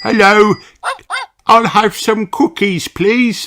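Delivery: high bright little dog voice; squeaky cartoon puppy. Danny Dog voiced by narrator.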